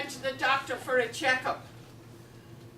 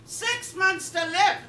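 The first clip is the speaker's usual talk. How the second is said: higher, louder, drawn-out incredulous question; slow outraged repeat; shocked disbelief; 7 semitones higher, 5 dB louder than usual. Acted. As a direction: echo the bad news in hammed-up shock. Patient reacts to grim news.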